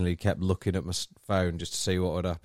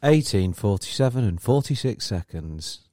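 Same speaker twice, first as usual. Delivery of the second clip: talking clock; 3 semitones higher, 3 dB louder than usual. Acted. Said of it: "It's a fucking talking clock".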